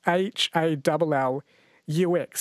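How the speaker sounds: slow letter-by-letter spelling of H A L L U X; spelled out slowly. Shown as a demonstration. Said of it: "wasn't sure about this word".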